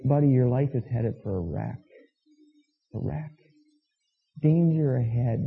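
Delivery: soft, measured caution; grave, earnest warning. Acted. True friend warning a buddy headed for a wreck, earnest. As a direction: warn a friend softly but firmly.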